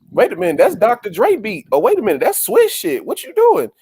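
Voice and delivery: impression of a rapper. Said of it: "a rapper kept saying".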